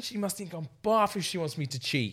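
giggling through a vain boast; laughing, smug. Retold or imitated. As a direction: laugh it out, full of himself. Quoting own vain thought.

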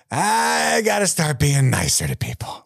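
high, slow, dazed mock epiphany; drawn-out high voice of a shaken man; mock-solemn realization, slow and high; quoting Danny. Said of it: "he's over there like".

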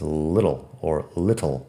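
short IH in both takes of "little"; LIDDLE, then LIT-tul, both with short I. Shown as a demonstration. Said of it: "la I corta es importante".

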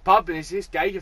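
fast, rough Glaswegian bloke telling a fight story; Glaswegian accent. Retold or imitated. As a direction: channel a wound-up Glasgow local, quick and sweary. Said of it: "so Glaswegian".

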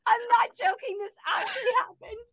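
insisting through laughter; high and laughing, insistent. Real, not acted. Laughing insistence after story.

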